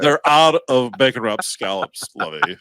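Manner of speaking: light put-on posh millionaire voice; a hint of the pampered rich man to his wife; Thurston Howell. Complaining to his wife about scallops, lightly posh. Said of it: "the little Thurston Howell the third action".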